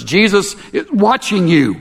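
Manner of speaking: a hint of a spooky warning, rung out; clear as a bell. A narrator's reading. Parrot repeats its warning to the burglar, high and clear. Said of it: "clear as a bell".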